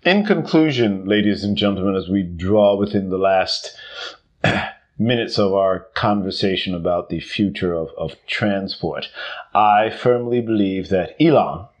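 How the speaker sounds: hammed-up closing address to an audience; mock formal speech. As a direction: wrap up like a pompous conference speaker.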